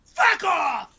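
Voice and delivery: furious, repeated shouted rebuff; angry shout. Real, not acted. Angry outburst at the co-host.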